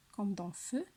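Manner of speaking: "feu" with a closed, rounded vowel; "feu" said clearly with a closed vowel. Shown as a demonstration. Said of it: "il est fermé".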